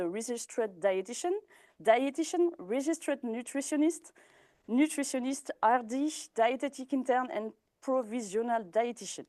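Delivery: French speaker reading English job titles in an English accent; Registered Dietitian and the other titles said the English way. Real, not acted. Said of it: "désolée pour mon petit accent anglais".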